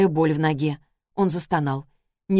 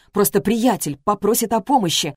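plain reading voice

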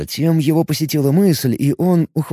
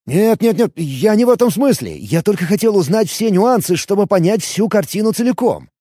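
hasty flustered backpedal; rattling on; 8 semitones higher than usual. A narrator's reading. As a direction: paladin backpedals fast to calm the elf, rattling. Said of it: "затараторил".

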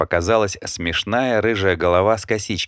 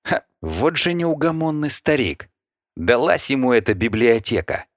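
grumbling angrily; 6 semitones higher than usual. A narrator's reading. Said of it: "пробурчал сердито парень".

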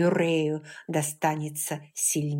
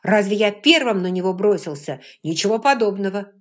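louder, stress on первым; heated retort; 3 semitones higher, 8 dB louder than usual. A narrator's reading. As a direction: fling it back at her. William argues back heatedly.

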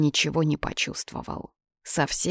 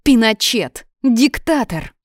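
loud, high accusing shout; indignant exclamations, pitched up; angry name-calling; 7 semitones higher, 6 dB louder, slower than usual. Acted. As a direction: hurl each word as an insult. Sonya hurls insults in quarrel.

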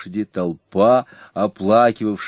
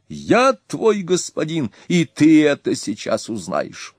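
1 haughty threat; 8 semitones higher than usual. A narrator's reading. Ernak continuing threat.

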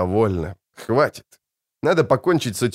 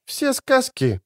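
through gritted teeth; slower than usual. A narrator's reading. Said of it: "процедила она".

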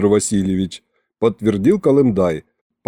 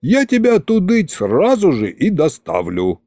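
mildly indignant, higher-pitched protest; 6 semitones higher than usual. A narrator's reading. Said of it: "возмутился Шматразум". (с лёгким возмущением, повыше)

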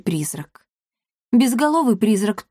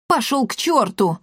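higher-pitched yelp of fright; mild squeal; 4 semitones higher than usual. A narrator's reading. Trish to the ghost, squealing in fright. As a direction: squeal it out, without much extra volume. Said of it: "взвизгнул Триш".

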